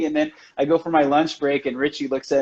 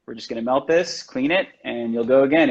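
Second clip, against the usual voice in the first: calm reassurance; 3 semitones lower than usual. Retold or imitated. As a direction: soothe a panicking apprentice. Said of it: "It was always just calm".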